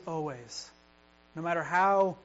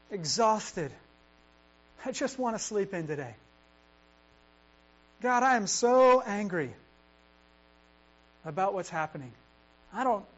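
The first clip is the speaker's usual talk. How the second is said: honest prayer; 3 semitones higher, 3 dB louder than usual. Shown as a demonstration. Believer honestly tells God they are exhausted, raw plea. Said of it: "start there".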